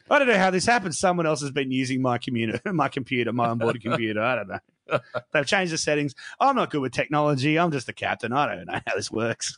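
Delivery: lightly voiced flustered Kirk; flustered captain. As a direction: stammer out a nervous excuse. Kirk flustered excuse to Christopher.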